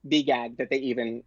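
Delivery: a bubbly dare-to-myself voice; excited self-talk. Retold or imitated. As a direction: pump yourself up on a whim. Retelling her excited self-talk.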